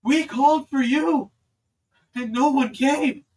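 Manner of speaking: loud, high, slow ghostly chant; slow, eerie chorus of the dead; haunting dead voices. Acted. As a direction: accuse her like the dead.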